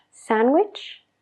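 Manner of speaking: sandwich as sanwich, no D; D dropped. Shown as a demonstration. Teacher showing the fast sandwich without the D. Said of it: "Sandwich se convierte en sandwich".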